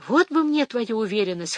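plain reading voice

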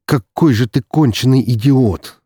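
loud, slow exasperated groan of a line; exasperated brother groaning over the phone. Acted. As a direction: moan it out in despair. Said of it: "простонал его брат".

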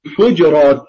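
الحجرات with the jim unvoweled; al-Hujrat with sukun. Shown as a demonstration. Teacher showing الحجرات with sukun. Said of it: "وهي السكون".

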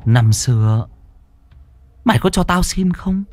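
high, soft and spiteful ghost voice; vengeful ghost threatening the mother; furious ghost. Acted. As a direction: sneer and threaten like a wronged spirit.

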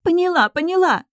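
very high, loud panicked cry; frightened princess shouting her surrender. Acted. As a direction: scream it to make him stop. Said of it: "закричала Эрика".

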